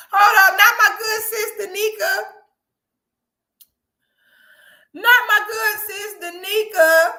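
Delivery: high, loud laughing squeals; wailing laughter at her sis; laugh-crying. Real, not acted. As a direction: crack up in shocked disbelief.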